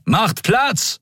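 high call for room. Acted. Medics rushing the stretcher, calling out high. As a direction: clear the path with a call.

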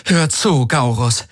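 high, hard commanding tone; harsh command. Acted. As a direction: bark his name as an order. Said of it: "mit aller Härte".

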